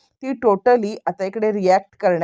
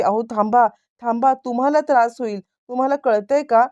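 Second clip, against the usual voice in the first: higher-pitched, mildly anxious urging; worried pleading; 4 semitones higher than usual. Retold or imitated. Wife urges her husband to stop before he suffers, mildly worried pleading. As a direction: act out a concerned plea to stop. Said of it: "प्रतिमाला त्यांची काळजी वाटते".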